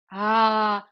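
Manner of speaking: brief open, firmly voiced ah; loud demo "ah". Shown as a demonstration. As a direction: sound a short, clear ah. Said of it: "make the voice loud".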